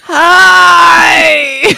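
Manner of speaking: loud, long-held, high greeting; mocking bad Irish. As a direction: imitate a terrible fake Irish hello, hammed up. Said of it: "do your best Irish accent".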